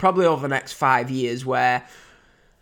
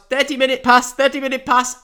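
raised, higher announcing call; imitated timekeeper's call, pitched up; mock timekeeper's shout; 7 semitones higher than usual. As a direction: call out the time like a ringside timekeeper. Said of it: "the timekeeper shouts".

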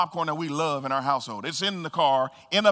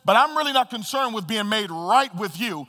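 higher, pleading plea to be taken down; pleading thief; 4 semitones higher, 3 dB louder than usual. Acted. Thief on the cross begging the Lord, higher pleading voice. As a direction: beg to get down, not for salvation.

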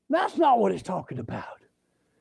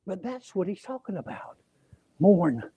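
normal talking voice

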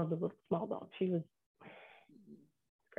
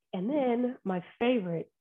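slow, higher-pitched sarcastic fondness; 4 semitones higher, slower than usual. Real, not acted. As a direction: draw it out with mock fondness. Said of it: "I say this sarcastically".

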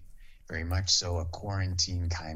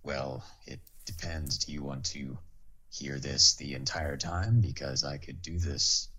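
lightly lowered, half-whispered angel voice, barely off his own; Castiel voice. Pretend. Asked by the host for the Castiel voice, he answers in a light hint of it. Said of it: "can you please do the Castiel voice".

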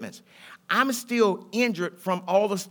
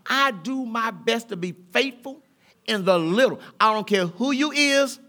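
casual street talk. Pretend. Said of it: "I can talk like that".

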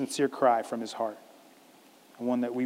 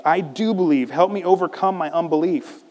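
earnest cry, somewhat raised; exclaiming; 4 semitones higher, 4 dB louder than usual. Acted. Boy's father answers Jesus, earnestly exclaiming. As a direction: exclaim it with a touch of urgency. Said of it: "the boy's father exclaimed".

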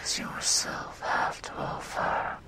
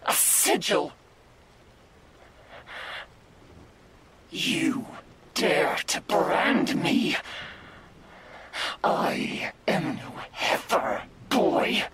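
outraged shout; 2 semitones higher than usual. Acted. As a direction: shout like a branded god. Demon outraged at being branded.

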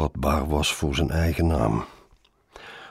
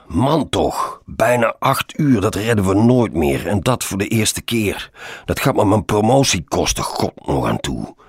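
raised, louder wail of complaint; a touch tearful, high and exasperated; whiny lament; 6 semitones higher, 6 dB louder than usual. A narrator's reading. Colleague fearing for his promotion, lamenting whinily. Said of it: "riep Roosjes huilerig".

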